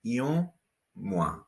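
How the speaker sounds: Un said as a nasal vowel, then mois as mwa; Un through the nose, mois crisp mwa. Shown as a demonstration. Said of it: "The O N nasal vowel sound".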